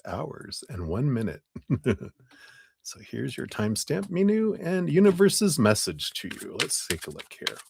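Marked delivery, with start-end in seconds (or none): 2.8-7.6 talking while crunching candy; words around a crunching cough drop. Real, not acted. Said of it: "Sorry, I'm crunching my cough drop".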